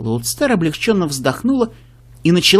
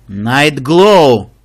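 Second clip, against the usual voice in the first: sharp call; 7 dB louder than usual. Acted. Mentor cuts off pony sharply.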